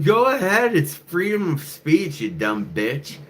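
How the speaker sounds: high loud mock yell; yelling back at the woman, hammed-up; retold yell. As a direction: shout it down at her. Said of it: "I was like".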